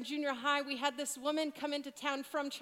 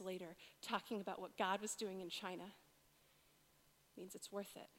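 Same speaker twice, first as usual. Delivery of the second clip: hushed, near whispering; 7 semitones lower, 10 dB quieter than usual. Real, not acted. Preacher softly recalls his dad's sacrifice, near whispering. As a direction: drop to a soft, intimate near-whisper. Tender quiet sermon passage.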